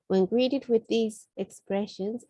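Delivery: ordinary delivery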